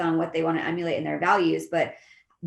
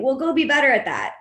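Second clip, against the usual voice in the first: mock offhand brush-off, higher and a bit louder; dismissive boss; 7 semitones higher, 4 dB louder than usual. Boss brushing off an employee, mock dismissive. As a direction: toss it off like an impatient boss.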